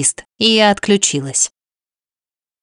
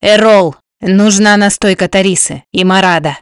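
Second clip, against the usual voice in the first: a sharp barked command, slightly louder; barked order; 4 dB louder than usual. A narrator's reading. Husband barks orders to Erol for the wounded wife. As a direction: snap out the order to a helper. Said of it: "Рявкнул".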